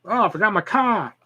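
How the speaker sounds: playful put-on Massachusetts accent. Showing off a cute Massachusetts accent, Massachusetts accent. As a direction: drop the R like a Massachusetts local. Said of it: "I like Massachusetts accents".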